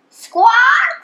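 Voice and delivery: high rising squawk; parrot squawk. A narrator's reading. Parrot ends its question, high squawk. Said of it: "said the parrot".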